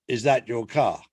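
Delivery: understated officious traffic warden, pitched low. Acted. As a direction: play the warden checking up on the driver. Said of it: "a traffic warden comes up to him".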